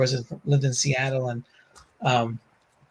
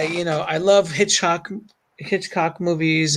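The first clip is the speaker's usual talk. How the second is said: "Hitchcock movies" drawn out slowly in a Bronx accent; slower than usual. Shown as a demonstration. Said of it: "it's my Bronx accent".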